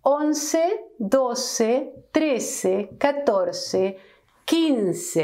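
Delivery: once, doce, trece, catorce, quince, each with a pause; Spanish numbers modelled. Shown as a demonstration. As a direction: show the ending ce on each number. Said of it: "we say".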